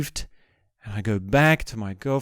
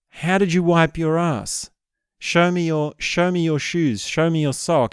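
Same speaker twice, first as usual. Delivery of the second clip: interrogating; 5 semitones higher than usual. Retold or imitated. Girlfriend interrogates him about the mess.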